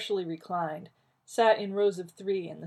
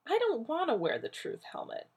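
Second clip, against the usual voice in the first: irritable; 10 semitones higher than usual. Acted. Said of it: "John said irritably".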